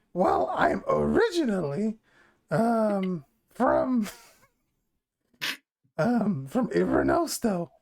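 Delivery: lightly voiced goblin woman; hesitant goblin woman, feeling for words. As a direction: put on a modest goblin voice. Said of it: "I have to do the goblin voice".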